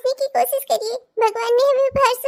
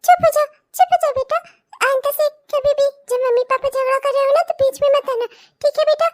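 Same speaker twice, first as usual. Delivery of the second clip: soothing mother. Acted. Mother calming her crying daughter after the fight, tender. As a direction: hush the child gently.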